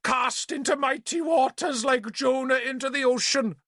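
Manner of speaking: high, declaiming wail; hammed-up martyrdom; melodramatic lament. Bishop in the pond wails like a martyr, high and declaiming.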